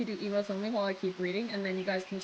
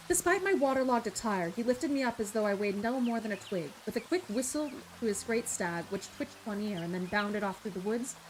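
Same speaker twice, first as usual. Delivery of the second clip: measured audiobook-style reading; story narration; 2 semitones lower, 5 dB quieter than usual. A narrator's reading. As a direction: read the tale aloud as its narrator. Reads a story aloud.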